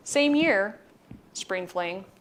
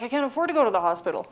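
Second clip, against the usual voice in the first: quick, higher-pitched imitation of a protesting student; retold hurried protest; 4 semitones higher, faster than usual. Injured student to paramedics in a retelling, hurried protest. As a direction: rush it out, imitating her objection.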